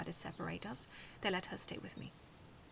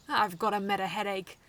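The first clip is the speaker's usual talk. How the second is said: groaning; 10 dB louder than usual. Acted. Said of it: "Metabee groaned".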